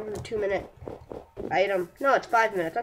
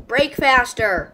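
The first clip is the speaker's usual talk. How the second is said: urgent shout; 2 semitones higher, 8 dB louder, slower than usual. Real, not acted. Urging while breaking.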